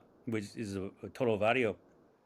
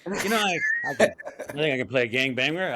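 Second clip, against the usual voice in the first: a squeaky, sheepish give-in after checking the bank account; reluctant caving in; 2 semitones higher, 5 dB louder, faster than usual. Retold or imitated. Broke, caving in on principle.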